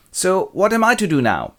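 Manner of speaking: high, loud plaintive question; helpless suitor. Acted. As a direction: wail it to your scheming friend. Helpless Rodrigo asks Iago.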